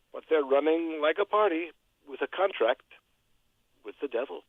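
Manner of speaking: measured rhyming verse with punched line ends; poem recital. Acted. Radio poet reciting his weekly poem for the host, poem recital. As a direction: recite comic political verse in a steady metre.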